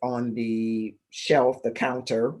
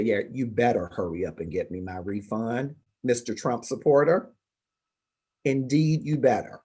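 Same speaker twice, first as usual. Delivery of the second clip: mocking retort.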